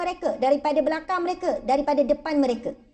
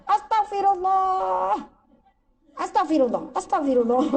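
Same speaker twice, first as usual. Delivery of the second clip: exasperated grandmother; 4 semitones higher than usual. Retold or imitated. Grandmother scolds a grandchild who messed the laundry, exasperated. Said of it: "Ni marah cucu".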